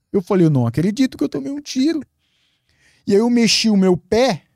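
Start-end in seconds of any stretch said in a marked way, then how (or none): 0.5-2.0 much higher voice, a retold cry of disbelief; can't believe it, voice jumps up; stunned disbelief. Realizing he's been shot, high incredulous cry.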